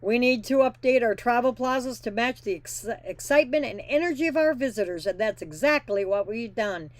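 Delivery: mock-earnest politician read, sarcastic; snarky quoting. Trucker mocking the governor's glowing quote, snarky. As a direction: read it like an overblown speech you don't buy. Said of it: "You can tell the snarkiness in my voice".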